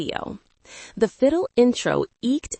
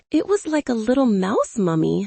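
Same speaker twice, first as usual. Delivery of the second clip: hiccuping; 4 semitones higher than usual. Acted.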